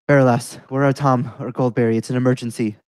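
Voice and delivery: loud, urgent call for help. Acted. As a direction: shout across the yard for help. Player calls out urgently to NPC.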